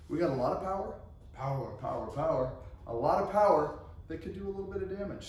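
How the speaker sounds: light echo of the power promo; hyped power chant, half-joking; monster truck ad. Pretend. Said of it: "monster truck commercials and they talk big".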